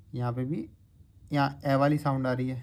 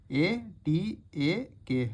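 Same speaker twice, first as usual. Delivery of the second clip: slow spelling out; 4 semitones higher, slower than usual. Shown as a demonstration. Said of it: "spelling out letters".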